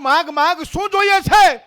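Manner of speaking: loud, high storyteller climax; urgent, full-voiced divine offer; booming proclamation. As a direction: proclaim it with rising force. Storyteller proclaims God's offer of boon.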